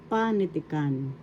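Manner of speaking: panitikan with a long stressed PA; teacher's model of panitikan, accent on PA; stress on first syllable. Shown as a demonstration. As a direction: lean on pa at the start of panitikan. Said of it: "This is how you pronounce it".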